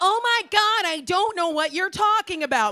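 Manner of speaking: high, most exaggerated, over-the-top American accent. Showing how to answer anyone's questions while staying in the country, over-the-top American voice. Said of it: "In the most over American voice you can possibly muster".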